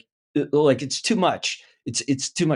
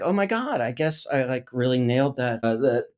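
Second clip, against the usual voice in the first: vain actor. Retold or imitated. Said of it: "the vain me is like".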